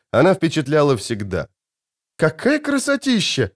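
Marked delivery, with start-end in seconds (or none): 2.2-3.5 high, bright-eyed delight; a girl's high, delighted cry. A narrator's reading. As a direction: gasp it out in wonder. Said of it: "восхищённо сказала Цири".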